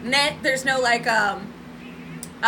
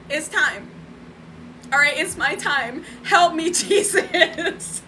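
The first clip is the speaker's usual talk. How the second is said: cat's dramatic voice; slower than usual. Retold or imitated. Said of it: "and she's like".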